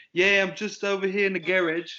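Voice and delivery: a light British carpenter voice; British accent. Retold or imitated. Retelling the carpenter's call about the garage, light British accent. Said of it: "British carpenter".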